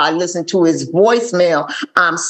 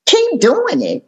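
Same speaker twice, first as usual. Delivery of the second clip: disbelief; 12 semitones higher, slower than usual. Retold or imitated. Sponsor's advice shocks her.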